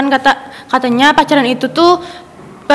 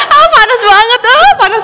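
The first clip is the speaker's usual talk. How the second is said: high laughing cry of feigned pain; 14 semitones higher than usual. Real, not acted. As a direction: laugh it out, playfully stung. Stung again, laughing high.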